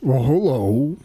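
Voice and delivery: echoing ghostly skeleton voice; haunting voice. Acted. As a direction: answer like an unearthly ghost. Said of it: "in a unearthly, ghostly voice".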